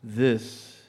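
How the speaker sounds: slow, sensual spoken word; poem recitation. Acted.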